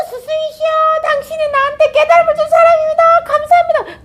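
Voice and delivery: high, far-off, gushing devotee voice; overjoyed devotee. Acted. Devotee gushing to the stranger, high and overjoyed. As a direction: gush at the stranger in a high squeal. Devotee meets teacher at river.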